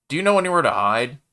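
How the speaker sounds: fast, loud panic; panicked. A narrator's reading. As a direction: blurt it in a rush. Panicked alien.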